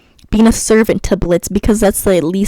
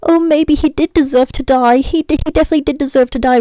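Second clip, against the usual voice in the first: mock Stolas; 6 semitones higher than usual. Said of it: "he's just like".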